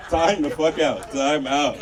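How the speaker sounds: slow, laughing time out; real laughter breaking through. Real, not acted. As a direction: crack up and call time out. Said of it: "stops the story laughing".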